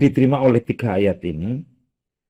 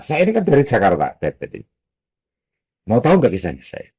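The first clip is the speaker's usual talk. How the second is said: eager storyteller. Acted. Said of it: "Ngomong gitu".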